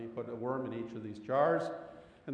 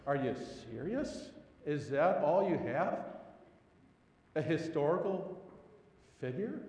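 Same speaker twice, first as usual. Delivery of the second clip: incredulous; 2 semitones higher than usual. Acted. Pastor answering someone who calls Jesus merely historical, incredulous. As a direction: stretch it out as if you cannot believe it. Incredulous reply to a dismissive remark.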